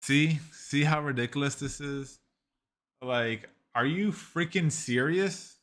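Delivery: can't believe how ridiculous this is; exasperated disbelief. Real, not acted.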